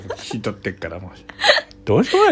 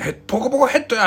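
fast, higher catchphrase yell; mock gag shout; 11 semitones higher, faster than usual. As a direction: fire off the gag like a stage comic. 吉本ギャグを叫ぶ. (吉本ギャグ風に速く高く叫ぶ)

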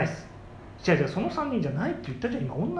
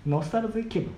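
ad pitch voice; 3 semitones higher, 3 dB quieter than usual. Acted. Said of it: "コマーシャルを三十秒".

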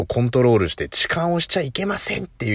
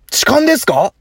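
bright, much higher mock-polite question; imagined polite question on the train; polite query; 13 semitones higher, 4 dB louder than usual. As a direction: ask like a staff member. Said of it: "そういう展開ないでしょう".

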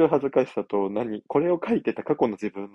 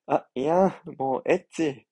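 coy teacher voice; 4 semitones higher, slower than usual. Acted. Teacher coyly protests.

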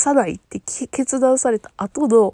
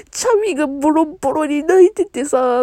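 laughing through tears; 4 semitones higher than usual. Real, not acted. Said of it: "リアルで泣いてます".

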